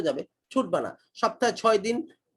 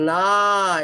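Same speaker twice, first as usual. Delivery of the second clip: emphatic retold correction; 6 dB louder than usual. Quoting her teacher's correction.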